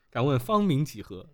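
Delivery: a hint of an old innkeeper; teahouse keeper voice. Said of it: "王掌柜不会问这样的问题吧".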